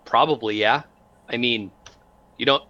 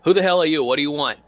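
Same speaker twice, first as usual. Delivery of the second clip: a higher, louder startled demand to strangers; gruff tech-priest challenge; 4 semitones higher, 4 dB louder, faster than usual. Acted. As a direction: snap at the intruders, half-alarmed. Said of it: "he looks, he says".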